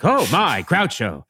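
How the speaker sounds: lightly voiced affronted society matron, rising on the ohs; a hint of a prim grande dame; Margaret Dumont impression. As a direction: play the scandalized dowager a touch. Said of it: "She kind of talked like Margaret Dumont".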